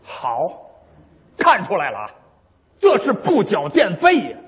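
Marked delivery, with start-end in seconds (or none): 2.8-4.4 irritated. Acted. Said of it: "收电费可都急了".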